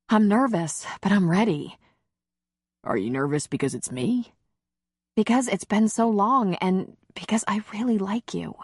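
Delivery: light female character voice; lightly voiced woman. Leslie speaks, higher than narration.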